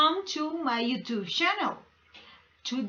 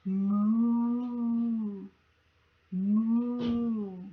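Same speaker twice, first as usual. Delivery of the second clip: cow moo. Shown as a demonstration. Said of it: "an animal that makes this sound".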